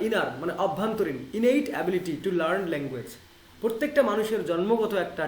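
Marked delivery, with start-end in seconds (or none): 1.3-3.1 reads each English word slowly and clearly; slow English reading. Shown as a demonstration. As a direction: read the quote out slowly, word by word. Reading English text aloud. (ধীরে ইংরেজি পড়া)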